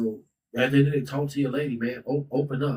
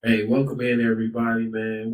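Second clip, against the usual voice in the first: louder host greeting to the live stream; loud welcome; 3 dB louder than usual. Real, not acted. Podcast host welcoming live viewers, loud and upbeat. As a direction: call out to everyone joining.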